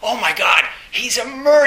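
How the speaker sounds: high, loud retold panic; terrified lawyer. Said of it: "his lawyer begins to be terrified".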